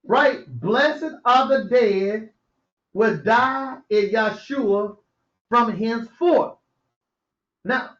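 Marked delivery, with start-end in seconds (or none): 0.6-6.6 slow solemn reading; drawn-out preacher reading; scripture reading. Acted. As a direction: read it slowly like holy writ.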